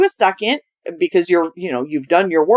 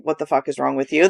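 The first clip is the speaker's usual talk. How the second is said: lower, softer, quick and affectionate despite the swear; loving version; 7 semitones lower, 3 dB quieter, faster than usual. Shown as a demonstration. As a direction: say "fuck" gently, low and soft, like a tease. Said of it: "that's my lovingly way of saying".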